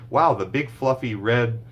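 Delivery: hammed-up overlong recast; overdone excitement. Shown as a demonstration. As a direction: gush too much on purpose. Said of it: "you don't have to say".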